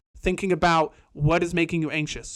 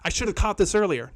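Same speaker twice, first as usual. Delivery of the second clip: louder, higher frustrated mock whining at yourself; self-scolding; 4 semitones higher, 3 dB louder than usual. Mocking the frustrated self who missed the depression, raised. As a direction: play the one beating themselves up. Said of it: "Don't start to beat yourself up".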